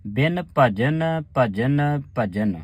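ਬਿਨ ਭਜਨ ਭਜਨ ਭਜਨ with a short rest on the third ਭਜਨ; pause on third bhajan. Shown as a demonstration. Teacher showing the sangat where to stop. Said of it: "ਤੀਜੇ ਭਜਨ ਤੇ ਆਣ ਕੇ ਰੁਕਣਾ".

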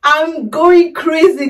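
overjoyed; excited. Real, not acted. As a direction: gush with real excitement. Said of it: "I'm super excited".

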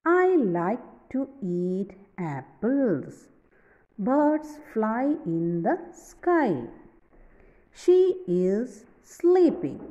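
slow, careful reading of each example. Shown as a demonstration. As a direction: read every example sentence slowly and clearly. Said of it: "For example".

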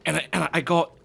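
slightly put-on British accent; lightly done British storyteller impression; Gordon Ramsay. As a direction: tell it in a mock British accent. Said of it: "I sound like Gordon Ramsay now".

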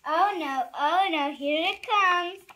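loud mock dread. Reader bracing for silly sounds, mock dread. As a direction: dread the coming sounds playfully.

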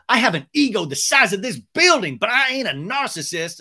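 loud, high, emphatic comeback; mock defiant boast. The speaker denying she's a narcissist, loud mock defiance. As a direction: belt out the boast in imitation. She fires back, acted.

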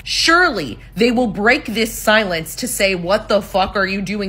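slow, drawn-out mock exasperation; retold inner rant, stretched out word by word; exasperated disbelief. Daughter voices mom's irate thoughts, slow mock exasperation.

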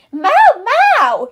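mock Gary meowing; snail meow. Child voicing the snail Gary.

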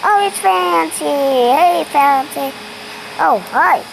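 loud and bright, spotting a friend; excited greeting. Acted. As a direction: call out happily.

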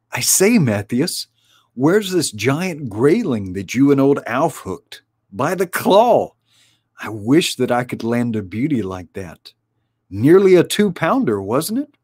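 otter admiring the catch, jolly; hearty otter. Acted. Winifred the otter speaks.

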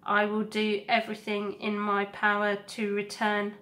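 a steady, tender robot mother. Acted. Roz's promise.

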